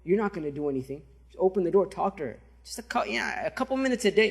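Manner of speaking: softly voiced coaxing, a mild mock whisper; retold whisper. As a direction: lightly imitate a tempter murmuring in someone's ear. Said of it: "whispers to him".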